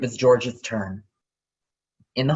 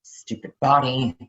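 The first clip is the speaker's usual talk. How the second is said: frustrated muttering; 5 semitones higher than usual. Acted. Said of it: "George muttered to herself".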